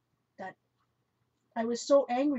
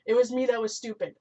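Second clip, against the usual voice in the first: "was" pushed louder with a falling end; louder repeat; 6 dB louder than usual. Real, not acted. Apologizing to Tim again, louder. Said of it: "I apologize".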